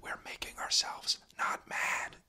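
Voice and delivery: slow, deliberate whisper. Real, not acted. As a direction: whisper so your voice cannot rise in anger. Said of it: "we're trying to whisper".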